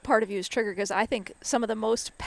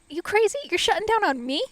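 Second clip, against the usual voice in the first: mock-incredulous challenge, higher pitch; high-pitched "are you kidding me" quote; retold incredulity; 9 semitones higher than usual. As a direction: act out disbelief at being shut out. Acts out a quarrel with friend.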